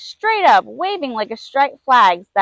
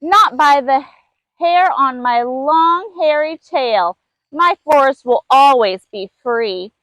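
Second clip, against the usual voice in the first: barking lemur. Acted. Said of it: "barked the first little lemur".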